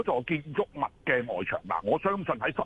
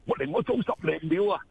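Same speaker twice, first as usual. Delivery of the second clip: higher-pitched mock sigh of reluctance; mock-exasperated, pitched up; imagined grumble; 7 semitones higher than usual. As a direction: voice someone who can't be bothered. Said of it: "有啲人就會覺得".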